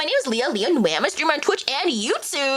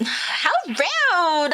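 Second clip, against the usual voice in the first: put-on valley girl; 5 semitones higher than usual. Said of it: "Valley Girl voice".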